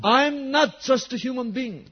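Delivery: high-pitched preacher's declaration; crying out. Acted. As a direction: proclaim it as Jesus calling to a crowd. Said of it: "he is crying this out". (podniesiony, wołający głos)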